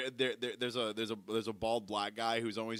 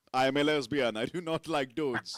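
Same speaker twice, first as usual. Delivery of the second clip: man voice; 5 dB louder than usual. Retold or imitated. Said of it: "in his man voice he was like".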